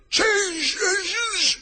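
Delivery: high, slow, hoarse shout; strained horsey cry; hoarse horse voice. A narrator's reading. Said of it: "a hoarse voice spoke next".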